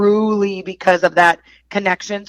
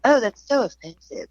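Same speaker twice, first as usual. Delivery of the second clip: mock offended; 4 semitones higher than usual. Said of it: "would I be".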